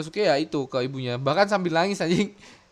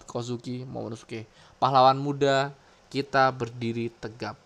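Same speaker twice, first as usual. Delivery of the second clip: narrator reading. A narrator's reading. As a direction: narrate the hero's future, settling down gradually. Reads the manga's narrator text. (gaya narator, lantang di awal lalu mereda)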